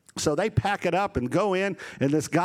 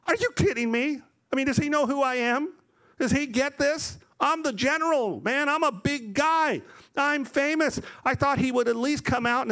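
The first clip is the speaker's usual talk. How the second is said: high-pitched indignant general; Naaman, angry; 8 semitones higher than usual. Retold or imitated. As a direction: act out wounded pride, pitched well up. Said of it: "Naaman's angry".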